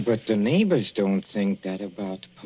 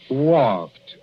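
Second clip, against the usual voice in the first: surprised; 2 semitones higher, 5 dB louder than usual. Acted. Husband reacts to wife walking.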